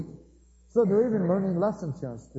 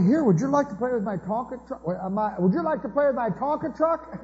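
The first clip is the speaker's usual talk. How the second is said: fake-sweet child; 7 semitones higher than usual. Child performing kindness for mother.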